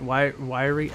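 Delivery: Wyrie with a w sound for the R; says w for r. Real, not acted. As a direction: Ryrie softened to Wyrie. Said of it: "I cannot pronounce my R's today".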